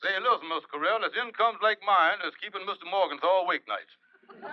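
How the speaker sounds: lightly voiced Kingfish boasting, with a laugh. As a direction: brag about his income as the Kingfish. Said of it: "when I'm playing the Kingfish".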